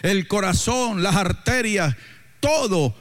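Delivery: emphatic exhortation with drawn-out phrase endings; preaching. Real, not acted. Preacher telling the congregation to get moving, emphatic preaching. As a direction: urge the congregation on, stretching the key words.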